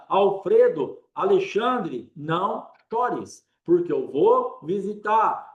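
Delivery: rising preacher's call, names each person; fervent preaching. Acted. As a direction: proclaim comfort over every name.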